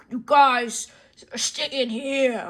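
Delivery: gruff monster order, slow at the end; a hint of a lumbering creature; Frankenstein. Frankenstein locking the players in, gruff monster voice. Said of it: "So Frankenstein's like".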